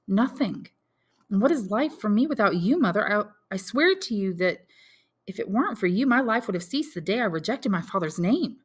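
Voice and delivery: son briskly taking stock; lightly voiced young Albert.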